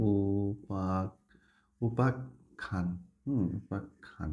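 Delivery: "উপাখ্যান" slow, split as upak-khan; spelling out slowly. Shown as a demonstration. Teacher spells for students, "উপাখ্যান" slowly as upak-khan. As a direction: softly stretch "উপাখ্যান", pausing on the k. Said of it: "দেখো আমি যদি বানান লিখি এরকম".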